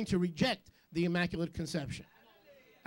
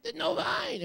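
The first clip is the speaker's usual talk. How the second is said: much higher, wailing mock Jewish mother; frantic Jewish mama. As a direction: wail like a panicked Jewish mother at a wedding. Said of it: "like a nice Jewish mama".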